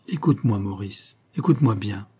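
slow and vibrant, pleading him to listen. Acted. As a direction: make each word tremble slowly. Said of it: "d'une voix lente et vibrante".

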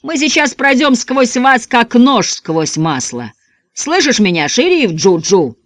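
slow, menacing boast; gloating threat. A narrator's reading. Gang boss taunts sheriff Ju-Ju, slow menacing drawl. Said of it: "заорал в ответ Большое Дуло".

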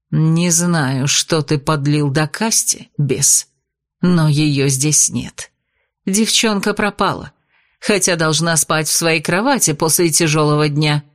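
низкий, медленный голос ведьмы; строго отчитать беса; холодная ведьма. Acted. (ведьма холодно говорит с бесом)

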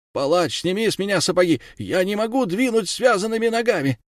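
urgent, rising defence before the judges; desperate plea. Acted. Accused nobleman pleads with the judges, desperate.

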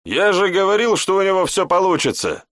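high loud triumphant shout; roaring. A narrator's reading. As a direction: roar it out with delight. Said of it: "взревел Гант". (громкий радостный рёв)

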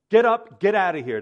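loud, forceful order to leave; emphatic command. Acted. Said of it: "it's very emphatic".

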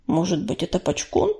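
low, subdued tomcat voice; Ураган. A narrator's reading. Tomcat tentatively guesses who the sign was, low and subdued. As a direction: offer it softly, pitched well down. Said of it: "предположил Ураган".

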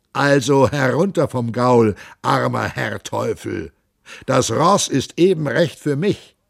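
a hint of a gruff captain jeering; mocking captain. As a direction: sneer at the poor devil. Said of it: "brummte Kuttler".

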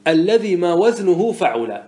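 slow, measured recitation of a poetic line; reciting the verse. Shown as a demonstration. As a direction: intone the half-line slowly, like reciting poetry. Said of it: "يقول الناظم".

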